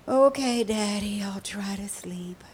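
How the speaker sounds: put-on child's cry fading to a whisper; tearful giving in. Little girl agreeing to try sleeping, tearful. Crying child gives in to father.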